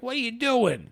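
high-pitched panicked protest; retold alarmed cry. Gangster watching the attack, high alarmed cry. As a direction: imitate a man yelping in alarm.

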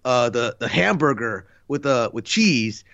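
lightly imitated halting film star, full of uhs; Jeff Goldblum. Fan imitating actor ordering fast food, hesitant light impression. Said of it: "in that Jeff Goldblum voice".

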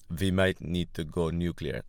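bad Russian accent, w turned to v; hammy mock Russian accent. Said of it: "my Russian accent's always been bad".

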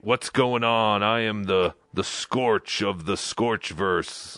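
lightly voiced slow, low show greeting; half-hearted imitation of a host's intro; mock show host. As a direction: drag out a mock host's opening. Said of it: "he's not just going on and going".

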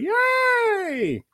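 high squeaky fake cheer; mock cheer. Mock cheer after intro.

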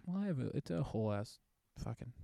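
choppy, dropping out; glitching audio. Real, not acted. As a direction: voice breaking up online. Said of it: "You also keep cutting out".

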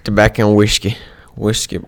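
lightly put-on southern accent. Shown as a demonstration. Testing words for an improv accent, southern accent. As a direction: practise a southern twang on the words. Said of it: "What's the southern accent?".

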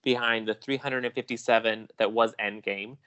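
slow, measured news reporter delivery. Acted. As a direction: read it like a TV box office report. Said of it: "Let me slip on my reporter voice".

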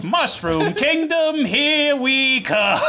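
high, slow Italian shout. Pretend. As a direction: belt it out with an Italian accent. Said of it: "our favorite Italian voice".

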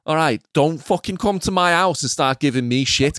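mock Scouse hard man; hammed-up Liverpudlian villain; bad Liverpool accent. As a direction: threaten him in a badly faked Scouse accent. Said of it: "I'm shit at Liverpool".

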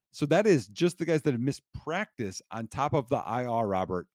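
winded after a long list; out of breath. Real, not acted. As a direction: talk while catching your breath. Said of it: "I am out of breath".

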